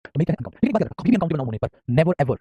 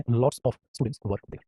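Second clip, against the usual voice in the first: drawn out, word by word; very slow model; 3 semitones lower, much slower than usual. Shown as a demonstration. Teacher drills the alternate sentence very slowly. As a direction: drag every word for clarity. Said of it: "आप कर सकते हैं".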